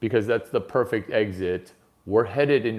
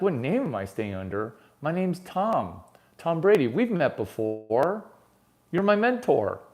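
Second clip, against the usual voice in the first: imitating Brady; 4 semitones higher than usual. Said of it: "He's like".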